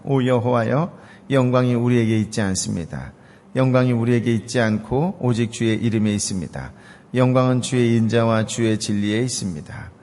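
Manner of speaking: loud, solemn reading of the verse; scripture reading. Acted. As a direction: proclaim the psalm to the congregation. Reading the Psalm aloud. (성경 봉독, 힘 있게)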